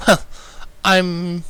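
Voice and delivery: high, light lady voice; Rarity, breezy. Acted. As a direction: answer without a beat, politely. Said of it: "she returned with no hesitation".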